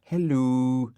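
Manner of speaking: put-on dog voice greeting; Dougal's voice. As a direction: answer as the fussy dog. Dougal's answering hello.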